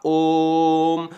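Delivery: ओम drawn out on one breath; ओम stretched, chant-like; prolonged om. Shown as a demonstration. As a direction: hold ओम as long as the breath lasts. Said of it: "जब तक मेरा सांस है तब तक मैं ओम कहता हूं".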